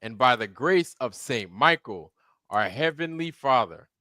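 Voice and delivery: grand ceremonial proclamation; solemn regal knighting. Acted. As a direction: speak like a king knighting someone.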